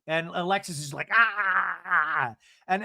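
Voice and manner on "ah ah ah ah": mock wailing "ah" sounds; stuttered, drawn-out mock cry; imitated wail. Imitates Alexis's wordless outburst.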